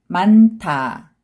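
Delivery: 많다 joined as 만타, aspirated t; read together. Shown as a demonstration. Teacher showing the linked sound to learners, read together. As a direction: run 많다 together with an airy 타. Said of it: "also 느 sound".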